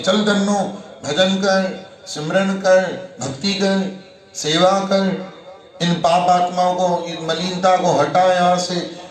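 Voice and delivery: loud, high, urging commands; rousing exhortation. Acted. Preacher urging listeners' minds, loud rousing command. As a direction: drive the lazy mind on like a rider.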